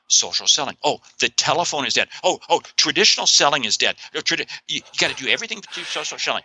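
mock-alarmed parroting, rising in pitch; mocking naysayers. Host parodies social selling believers to the guest, mockingly. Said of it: "because people sit there".

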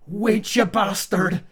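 put-on high, lilting stereotypical Irish accent; sing-song Irish lilt, pitched high. A narrator's reading. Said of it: "a very stereotypical Irish sing-song voice in a higher pitch".

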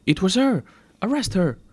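high, loud accusing shout; yelled accusation. A narrator's reading. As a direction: yell to get her arrested. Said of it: "the attendant yells".

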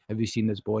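lightly voiced ominous movie villain, low; a low, dramatic villain line; dramatic robot villain. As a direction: say it low as the menacing cyborg. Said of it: "you're expecting him to sound like".

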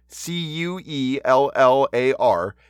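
slow letter-by-letter spelling; spelled out slowly. Shown as a demonstration. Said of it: "Mike Quellar".

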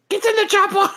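very high mock Austrian action-hero bark; Arnold Schwarzenegger. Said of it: "do your Arnold Schwarzenegger voice".

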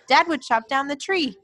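high-pitched, lilting fond reminiscence; nostalgic Jon. Retold or imitated. Acting Jon reminiscing to Garfield.

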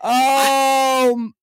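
high, long-held wail sinking gradually; drawn-out lament. Real, not acted. Host lamenting a spoiled game score, drawn-out wailing. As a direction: wail slowly in dismay, easing down.

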